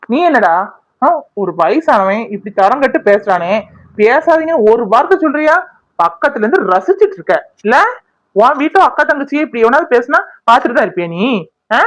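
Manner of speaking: angry telling-off, pitch jumping up on the questions; indignant scolding. Acted. Woman scolds a man who watched the abuse, indignant. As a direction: take the silent bystander to task. Scolds bystander for staying silent.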